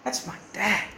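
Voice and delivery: choked-up, softly voiced child; tearful son. Son proudly naming his parents, choked up. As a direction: voice catching on mum and dad. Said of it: "when your son says".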